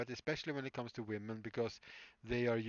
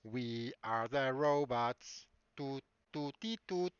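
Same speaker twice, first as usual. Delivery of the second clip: slow, measured mock robot chant; slower than usual. Streamer playfully imitates singing robots, slow robot voice. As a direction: play a robot, slowly, with little toots.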